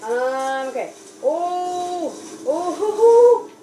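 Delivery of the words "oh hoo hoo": excited hooting. Real, not acted. Reacting in the game.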